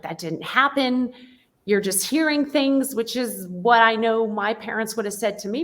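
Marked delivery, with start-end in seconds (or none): 0.0-3.0 dismissive. Retold or imitated. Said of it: "I could have been like".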